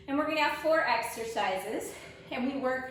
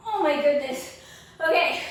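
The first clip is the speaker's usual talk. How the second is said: loud effortful exclaim; 2 semitones higher, 8 dB louder than usual. Real, not acted. End of hard workout set.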